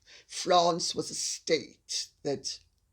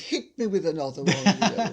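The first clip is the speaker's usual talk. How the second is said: chuckling as he asks for more; laughing request; 5 dB louder, faster than usual. Real, not acted. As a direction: toss it out with a laugh, game for anything. Eager to move on, laughing.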